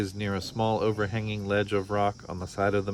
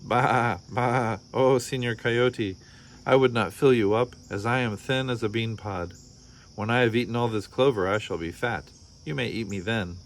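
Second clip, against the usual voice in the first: bleating lamb. Acted. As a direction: lightly bleat the pleading lamb. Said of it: "Borreguita bleated".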